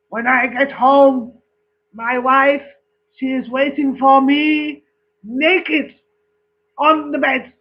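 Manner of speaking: put-on boasting Frenchman in a joke, French accent. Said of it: "the French one says".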